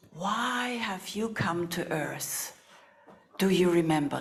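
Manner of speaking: slow, gentle asking; slow spoken question. Shown as a demonstration. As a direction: let each word hang slowly. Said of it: "Let's just say that".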